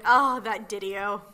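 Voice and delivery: exasperated sigh. Retold or imitated. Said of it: "how many times ... have we said".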